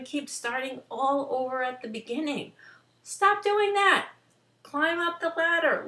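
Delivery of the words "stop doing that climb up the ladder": higher and louder, firm and urgent; emphatic command. Real, not acted. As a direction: snap them out of the habit. Urging listeners to stop restarting.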